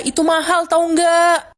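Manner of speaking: snapping mother, voice rising to a shout; mother scolds her child for breaking the new phone; scolding. Acted. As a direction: tell the child off sharply. Mother scolds over broken phone.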